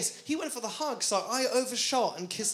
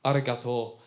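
low, slow Japanese thanks as the chef; imitated sushi chef; 9 semitones lower, 4 dB louder, slower than usual. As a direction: drop low and draw out the chef's reply. Imitates the sushi chef's reply.

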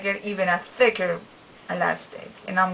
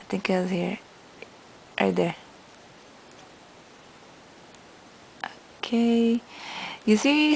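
talking with lip held down; finger pulling mouth corner. Real, not acted. Seen 3: Fingertip drags left lower lip corner down, exposing braces throughout.

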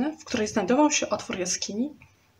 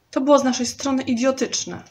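higher, louder agitated outcry; agitated exclaim; 4 semitones higher, 4 dB louder than usual. Acted. Klapaucjusz berating himself to Trurl, agitated and loud. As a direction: burst out in frustration. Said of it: "ze wzburzeniem zawołał".

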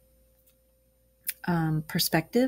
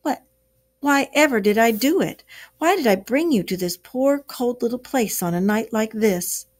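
dismal lament; 4 semitones higher than usual. Acted. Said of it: "he cried dismally".

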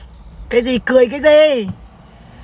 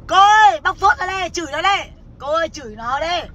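mock egging-on; 4 semitones higher than usual. Mocking the fans who cheer a woman on to curse, mock egging-on. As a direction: imitate followers goading their idol, pitched up. Voicing followers who egg her on.

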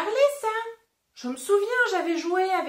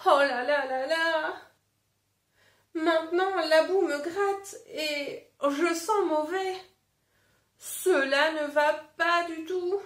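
dismayed wolf; 3 semitones higher than usual. Acted. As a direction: lightly whine about itching mud.

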